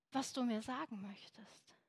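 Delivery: softly whispered plea, breath only; whispered prayer. Acted. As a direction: confide it to Jesus in a whisper.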